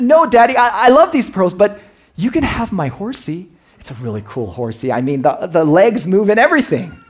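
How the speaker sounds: put-on high, loud child protesting; alarmed little girl. Daughter refusing to give her father the pearls, high and loud. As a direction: squeal it out like a girl clutching her treasure.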